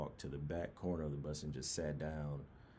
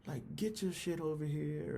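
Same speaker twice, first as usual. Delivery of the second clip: higher, louder barked command; mock instructor shout; 12 semitones higher, 4 dB louder than usual. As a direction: snap the order like a drill sergeant. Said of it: "they're all going off".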